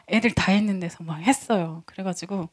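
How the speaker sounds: normal talking voice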